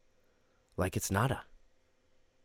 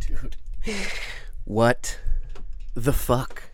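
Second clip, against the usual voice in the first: loud disbelief; 5 semitones higher, 5 dB louder, much slower than usual. Real, not acted. Host reacts to the story.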